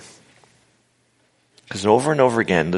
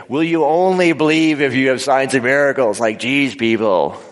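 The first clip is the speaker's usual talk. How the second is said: higher, louder, incredulous challenge; exasperated; 4 semitones higher, 4 dB louder than usual. Shown as a demonstration. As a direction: throw it at them, fed up. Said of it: "But if I do it this way".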